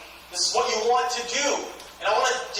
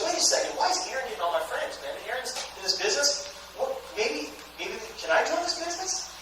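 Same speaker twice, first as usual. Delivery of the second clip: wondering; 3 semitones higher, 5 dB quieter than usual. Acted. Trevor starting to think about joining, wondering. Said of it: "He's gonna start thinking".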